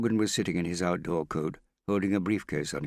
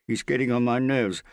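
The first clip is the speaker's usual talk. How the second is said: raised, tense complaint, short of shouting; irritated; 8 semitones higher, 7 dB louder than usual. A narrator's reading. Morgan grumbles to Hester about Harry, irritated. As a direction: complain edgily, holding back the shout.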